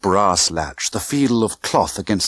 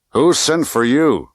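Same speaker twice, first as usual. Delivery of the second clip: fat man's menace; 4 semitones higher, slower than usual. Acted. Fat man confronting Bond.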